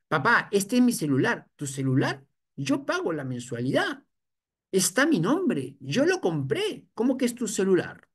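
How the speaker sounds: lightly voiced teen claiming his phone; mock defiant teen. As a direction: argue back like a stubborn teen. Teen arguing with father over phone.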